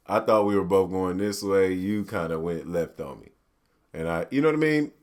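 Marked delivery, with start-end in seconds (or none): 0.1-3.3 calm breakup line. Pretend. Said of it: "nothing wrong with saying".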